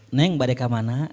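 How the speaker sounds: mock-gentle sweet talk to a woman; lightly put-on gentle courtesy; sweetly soft-spoken. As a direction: coo it politely, like a flirting husband. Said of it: "Ngomongnya halus".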